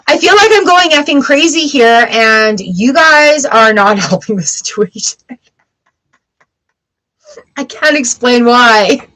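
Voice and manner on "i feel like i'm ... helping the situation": lightly acted frustration to her husband; mock venting of being driven crazy; exasperated to husband. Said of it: "I'm like".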